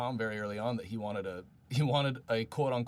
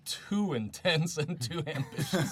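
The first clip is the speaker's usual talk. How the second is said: lightly acted objection, higher and louder; mock-serious warning, pitched up; imitating Mark's objection; 5 semitones higher, 4 dB louder than usual. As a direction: quote a colleague's warning in a raised, half-laughing voice. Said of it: "Mark, in all of his wisdom, was like".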